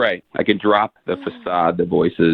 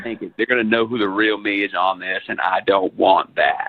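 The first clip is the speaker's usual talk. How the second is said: lightly put-on film star voice; Matthew McConaughey; 2 semitones lower than usual. Caller hides his real self, lightly doing McConaughey. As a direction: stay in a light McConaughey impression. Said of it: "I'm just doing this voice".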